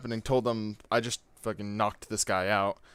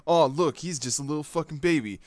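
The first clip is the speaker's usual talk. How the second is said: mocking sneer; 5 semitones higher than usual. Bully mocking the kid.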